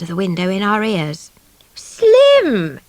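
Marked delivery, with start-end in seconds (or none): 1.7-2.8 loud, high call of "Slim!"; yelled name. Acted. Grandmother yells for the father over the bugle, loud. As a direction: yell across the house for him. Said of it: "yelled my grandmother".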